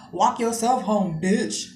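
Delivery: retold curt angry dismissal; mildly angry, drawn-out order; mad. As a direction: imitate a mad guy sending her off. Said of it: "he got so mad".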